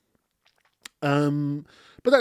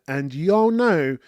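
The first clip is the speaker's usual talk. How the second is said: tender; 4 semitones higher, much slower than usual. Real, not acted. Tender sign-off to viewers.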